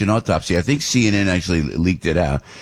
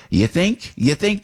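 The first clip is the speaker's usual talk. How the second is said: sarcastic; 8 semitones higher, slower than usual. Real, not acted. Sarcastic retort to Democrats.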